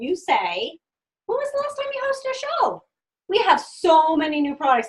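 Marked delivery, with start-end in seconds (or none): 1.3-4.9 high, bright-eyed question; mock-sweet consultant question; sweet sales pitch. Shown as a demonstration. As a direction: ask it sweetly like a hostess. Modelling the sales line.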